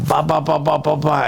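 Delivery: rapid-fire popping bas; imitated punch flurry. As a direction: pop out each punch in quick succession.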